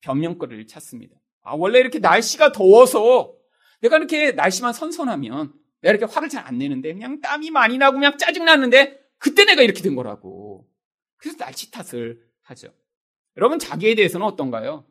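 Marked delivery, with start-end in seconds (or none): 1.4-10.7 mock irritated self-justification; put-on peevish complaining; whiny excuse. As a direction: blame it all on the weather. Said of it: "또 상황에 대해서 또 변명거리를 찾습니다".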